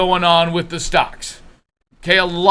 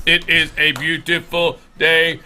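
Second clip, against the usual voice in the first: robot voice; 3 semitones lower than usual. Retold or imitated. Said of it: "Then you become robotic".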